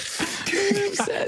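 high mock-upset whine through laughter; laughing but angry. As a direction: insist you're upset while laughing. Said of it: "I'm laughing, but I'm angry".

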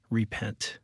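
firm but loving, held back; gracious firm word. Retold or imitated. Retelling God's word to the pastor, quiet and grave. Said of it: "strong but gracious".

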